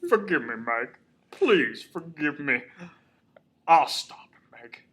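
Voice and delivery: hammed-up grief turning to vengeance; Mel. Host re-enacts Mel's monologue over the body, overwrought grief. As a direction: melodramatic self-talk, swinging from loud wail to plea. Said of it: "Mel keeps talking to himself".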